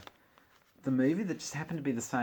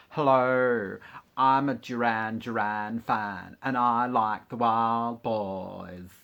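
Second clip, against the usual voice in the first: loud, drawn-out caricature of a fan; mock fan voice; 8 dB louder, slower than usual. Vlogger posing as a fan of a band, mock fan voice. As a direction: ham up a slow, loud fan introduction.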